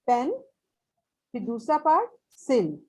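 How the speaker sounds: पेन and सिल each said as its own part; syllables said separately. Shown as a demonstration. Teacher splits pencil for the class, पेन and सिल said separately. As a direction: set पेन apart from सिल with a pause. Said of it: "पेन अलहदा और सिल अलहदा".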